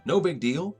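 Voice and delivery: offhand villain shrug; breezily casual. Retold or imitated. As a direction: toss it off as nothing. Villain dismisses huge threat casually.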